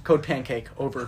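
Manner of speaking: crisp radio dispatcher call; police radio. Pretend. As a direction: call it in like a cop on a walkie-talkie. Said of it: "walkie-talkie, being like".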